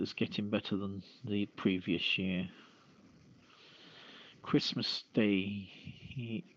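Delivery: ordinary talk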